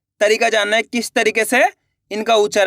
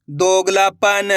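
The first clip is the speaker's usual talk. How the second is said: slow spelling; much slower than usual. Shown as a demonstration. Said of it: "अब अपन direct मात्रा का उच्चारण करके पढ़ेंगे".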